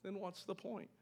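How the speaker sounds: hammed-up indignant complaint; mock upset. Preacher imitating someone upset that they must explain themselves. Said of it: "Or we even get upset".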